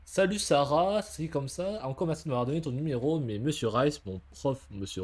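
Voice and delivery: put-on lively read-aloud of a chatty teen's letter; lecture de lettre. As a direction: read out a rambling note to a crush. Lit une lettre à voix haute. (lecture animée d'une lettre à voix haute)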